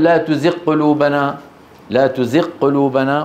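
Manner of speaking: تزغ قلوبنا with غ swallowed into a doubled q; merged Ghain error. Shown as a demonstration. Teacher showing students the mistake, غ merged into ق. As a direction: run تزغ into قلوبنا as tuziqqulubana. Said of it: "لا تقل".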